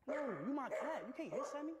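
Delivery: high-pitched, offended protest; high, whiny disbelief; indignant pet scolding. Real, not acted. Scolding own cat for hissing.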